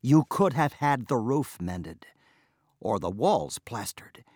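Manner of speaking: exasperated wife scolding, lightly voiced; mild scolding tirade; scolding outburst. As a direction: berate him in frustration. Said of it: "flung up her hands and burst out".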